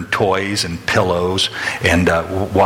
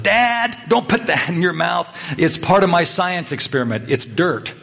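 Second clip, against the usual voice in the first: put-on much higher, like a little girl calling out in alarm; imitating a daughter yelling across the kitchen; mock child's yell; 9 semitones higher than usual. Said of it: "yelled out".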